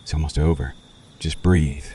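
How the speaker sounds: vampire hushing the new victim as the change takes hold, soft and calm; soft soothing. Acted. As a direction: ease them under gently, almost murmured. Vampire soothes victim during turning.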